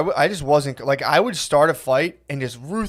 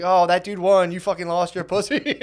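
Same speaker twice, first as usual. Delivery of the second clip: higher-pitched mock schoolyard taunt; bullying taunt; 4 semitones higher than usual. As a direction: rub it in like a bully, voice lifted. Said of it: "then bullied that kid".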